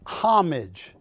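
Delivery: HOMAGE with stress up front, HOM-ij; anglicized homage. Shown as a demonstration. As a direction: say homage as HOM-ij, English style. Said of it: "What do they call it, homage?".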